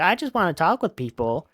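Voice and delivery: lightly voiced woman pleading for company; Curly's wife. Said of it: "she's like".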